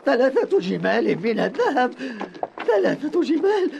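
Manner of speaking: gleeful laugh through words. Acted. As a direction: laugh with greedy delight. Marvels at the gold's value. (يضحك بطمع)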